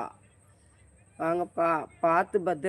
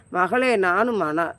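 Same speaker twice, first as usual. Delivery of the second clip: laughing; 5 dB louder, slower than usual. Real, not acted. Laughs reading a viewer's comment.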